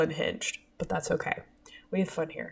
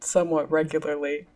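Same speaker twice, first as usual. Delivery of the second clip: unvoiced aside whisper; 3 semitones lower than usual. Real, not acted. After drum roll buildup.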